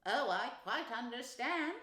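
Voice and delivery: slow, drawn-out sympathetic reply; soothing. A narrator's reading. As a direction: soothe a frightened friend. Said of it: "said the rat soothingly".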